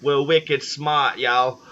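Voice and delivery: drawn-out mock Boston accent; lightly hammed-up Boston accent. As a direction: slowly imitate a Boston local. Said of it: "you got the East Coast accent".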